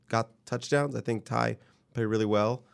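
tired voice fading away; voice giving out. Real, not acted. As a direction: let the voice give out. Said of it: "my voice is giving out right now".

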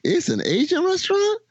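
shocked. Retold or imitated. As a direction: gasp it out in disbelief. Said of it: "I was shocked".

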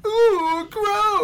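very high squealed ooh gross. Shown as a demonstration. Repeating his grossed-out reaction to a comic page, high squeal. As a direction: shriek it out high and disgusted. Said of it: "Did you hear me?".

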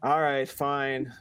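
slow, drawn-out mock giving in; mock reluctant concession. Podcaster retelling being called out by others, mock resigned. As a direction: drag it out as if caving. Acted giving in to teasing friends.

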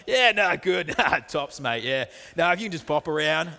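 lightly hammed-up matey phone chat; tradie-chat voice. Husband phoning a tradie, mock matey voice. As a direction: play at being one of the blokes. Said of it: "You drop your voice an octave".

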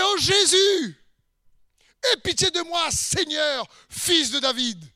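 high, loud plea, easing off at the end; crying out. Acted. Woman crying to Jesus for pity, crying out. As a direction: call out high, then come down. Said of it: "Elle criait".

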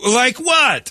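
mock speed-dater voice; awkward dater. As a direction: play the blunt date. Acted awkward date quote.

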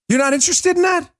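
high fast disbelieving challenge; incredulous. Real, not acted. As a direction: throw it back in disbelief.

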